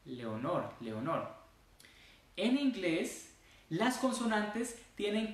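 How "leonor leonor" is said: "Leonor" with the L touched fast and released; Spanish "Leonor", short light L; quick Spanish L. Shown as a demonstration. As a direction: flick the tongue off the L in "Leonor". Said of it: "se toca rapidísimo y se sale".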